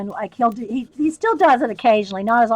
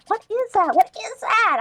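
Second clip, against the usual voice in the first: higher, puzzled thought; mild surprised higher thought; puzzled inner voice; 11 semitones higher than usual. Retold or imitated. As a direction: wonder aloud, higher. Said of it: "I thought".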